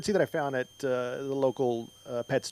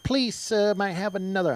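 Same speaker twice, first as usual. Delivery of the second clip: put-on British urchin accent; 5 semitones higher than usual. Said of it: "I don't know why they would have that accent".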